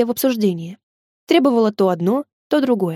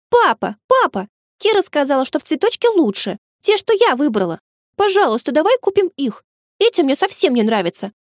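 put-on high, eager little girl begging her dad; excited child pleading; 4 semitones higher than usual. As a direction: plead with papa, bouncing with excitement. (девочка радостно упрашивает папу купить занавески, высоким голосом)

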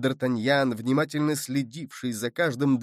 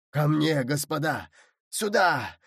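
plaintive cry for help. Acted. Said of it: "жалобный голос".

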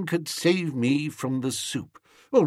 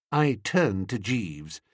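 ordinary delivery, nothing marked

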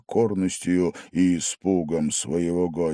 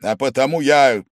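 loud, measured, stern reproach; 4 semitones higher, 6 dB louder than usual. A narrator's reading. Restrained host sternly addresses his drunk guest. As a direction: speak sternly, holding back anger. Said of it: "заметил он строго".

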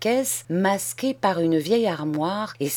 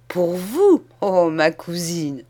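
ironic; 3 dB louder, slower than usual. Acted. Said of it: "Charles sourit ironiquement".

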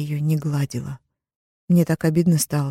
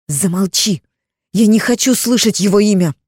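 put-on girl screams, higher and louder; screaming; 4 semitones higher, 6 dB louder than usual. Sister screams at Zara not to say his name, furious shout. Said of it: "закричала она".

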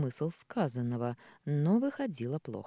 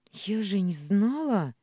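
louder, slow, tearful cry; breaking into tears; 6 semitones higher, 7 dB louder, slower than usual. Acted. Ksyusha bursts out crying to her father. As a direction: let the tears spill over the words. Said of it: "Ксюша всё же расплакалась".

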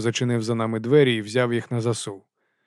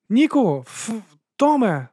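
high, louder call from the door; 11 semitones higher, 4 dB louder, slower than usual. Acted. Starling calls Nick and Tom from the doorway. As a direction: call them both in from the doorway.

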